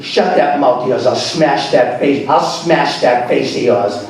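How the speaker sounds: hammed-up low warning; mock motherly threat. Imitates mother threatening her child.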